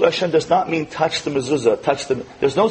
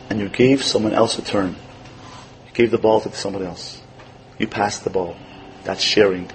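tender praise; 5 semitones lower, 3 dB quieter than usual. Retold or imitated. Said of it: "I give each one a whisper".

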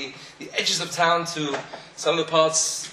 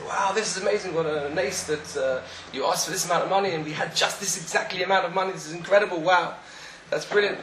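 amazed crowd; 4 semitones higher than usual. Acted. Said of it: "so shocked and so surprised".

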